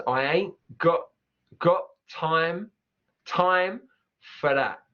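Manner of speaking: slow Cockney "got time" with glottal T. Shown as a demonstration. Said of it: "loads of glottal".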